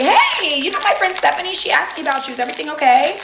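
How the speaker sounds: a lightly voiced cousin, sugary and high at the start; mock sweet cousin. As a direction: mimic the cousin's fake concern. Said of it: "And your cousin finally".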